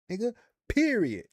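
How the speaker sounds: emphatic yell. Pretend. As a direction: end it with a loud sharp punch. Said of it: "He coulda been like".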